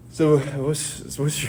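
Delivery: ordinary delivery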